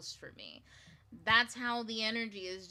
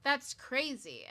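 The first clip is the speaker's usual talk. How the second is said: amazed; 4 semitones higher, 4 dB louder than usual. Retold or imitated.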